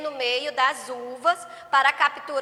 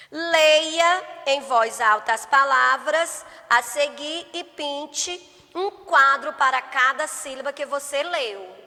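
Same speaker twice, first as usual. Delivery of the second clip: usual speaking voice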